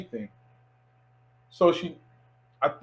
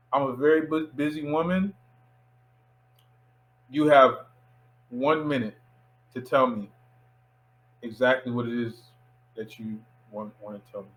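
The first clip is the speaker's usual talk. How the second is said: controlled, dropping softer toward the end; measured ultimatum; 3 semitones lower, 3 dB quieter than usual. Retold or imitated. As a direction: imitate a busy woman laying down terms. Voicing busy actress giving an ultimatum.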